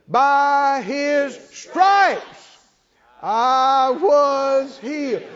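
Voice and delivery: "stripes" loud, pause, then "I was healed" slow; stress on STRIPES. Shown as a demonstration. Preacher still walking through stressing each word. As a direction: hit "stripes" and break before "I". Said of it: "you can emphasize every word".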